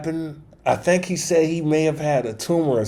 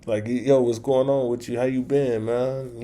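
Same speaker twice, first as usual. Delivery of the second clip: softer, easygoing greeting; relaxed like an old friend calling; a hint of calm friend on the phone; 5 dB quieter than usual. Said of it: "he was very calm".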